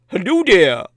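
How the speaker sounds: light dorky cartoon accent on hello; a hint of a goofy cartoon hunter; Elmer Fudd voice. Demonstrating the stranger's greeting to the listener in a mild Fudd voice. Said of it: "Like Elmer Fudd".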